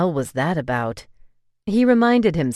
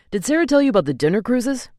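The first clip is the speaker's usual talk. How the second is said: eager question; 9 semitones higher, 5 dB louder, faster than usual. Acted. Angel asking eagerly.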